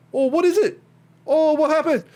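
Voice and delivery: high, loud mock accent of a bad voice actor; terrible New Zealand accent. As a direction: ham up an awful fake Kiwi accent, way up high. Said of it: "it's the worst accent you've ever heard".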